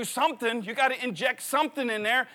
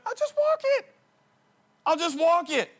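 squeaky, much higher put-on voice giving up; mock whiny thought; 7 semitones higher than usual. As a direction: play the lazy inner voice that wants to quit. Retold thought during the race.

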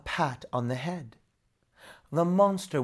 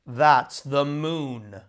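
roared; 4 dB louder, much slower than usual. Acted. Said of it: "roared the devil".

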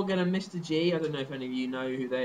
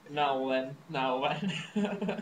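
a light Jimmy Savile catchphrase impression, drawn out; much slower than usual. Impersonating Jimmy Savile's catchphrase for a friend, lightly.

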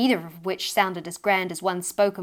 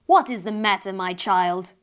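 down a chimney; 5 dB louder than usual. Acted. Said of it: "a voice boom down the chimney".

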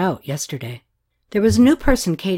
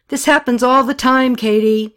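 loud, higher shout back; yelling back; 6 semitones higher, 7 dB louder than usual. A narrator's reading. Jay yelling back at an angry Katie. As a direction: fire it right back at her. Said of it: "he yelled right back at her".

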